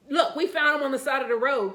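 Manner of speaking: loud and high, cutting her short; firm loud telling-off. Retold or imitated. A mother sharply tells the Karen to back off, loud. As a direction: set her straight, forcefully.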